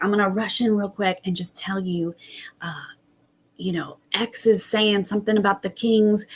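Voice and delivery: retold hushed whisper, rushing in; voiceless secretive whisper of a sneaky houseguest. Tiffany sneaking in with a secret, whispering.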